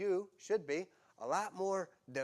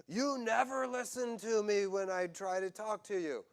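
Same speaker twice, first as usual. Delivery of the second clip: whiny spouse; 6 semitones higher than usual. Acted. Spouse complaining, acted quote.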